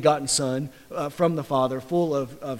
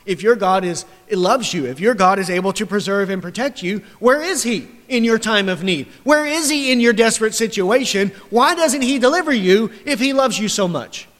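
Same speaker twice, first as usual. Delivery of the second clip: a touch higher, needling questions; mocking taunt; 4 semitones higher than usual. Preacher voicing adversaries taunting the psalmist, mild mockery. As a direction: jab each question at the sufferer. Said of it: "And what are they saying to him".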